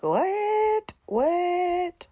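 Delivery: very high, stunned double what; shocked what. Retold or imitated. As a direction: squeak it out in disbelief. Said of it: "I'm like".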